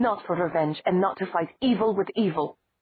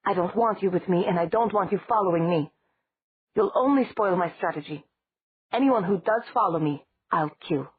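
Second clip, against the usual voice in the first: deliberate, each word stressed; 3 semitones higher, 4 dB louder than usual. Acted. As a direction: lay down each word like a threat. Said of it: "spoke deliberately, emphasizing each word".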